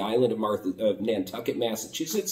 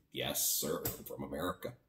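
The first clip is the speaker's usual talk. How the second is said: much softer, lower, meek and polite; meek yes sir; 8 semitones lower, 14 dB quieter than usual. Retold or imitated. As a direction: answer the guard timidly, almost under your breath. Meek reply to border guard.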